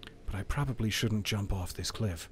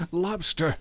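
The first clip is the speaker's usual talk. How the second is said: surprised exclamation; 7 semitones higher than usual. Real, not acted. Spots enemy lobster.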